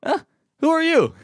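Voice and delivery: high, startled "who are you?"; misheard challenge. Retold or imitated. Customer seemingly challenging the cashier, high puzzled question. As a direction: question them as a total stranger. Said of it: "But I thought he goes".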